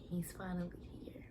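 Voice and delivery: hushed unvoiced whisper; awed whisper. New mother seeing her baby, awed whisper. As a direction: breathe it in wonder. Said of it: "I was just like".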